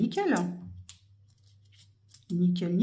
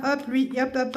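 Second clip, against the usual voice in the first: ordinary talk, nothing marked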